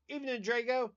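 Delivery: high, loud, hammed-up German; mock German greeting. To the pet while doing Duolingo, a mock German accent. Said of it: "Baby Faye laughs at me while I'm doing my".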